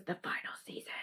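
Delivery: whispered dramatic title; whispered reveal of the final season; hushed title read. Acted. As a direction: breathe it like a trailer title. Reading a title in a hush.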